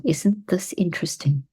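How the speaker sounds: calm, softened demo take; calm, soft take. Shown as a demonstration. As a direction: say it gently and evenly. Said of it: "Notice that it's calm".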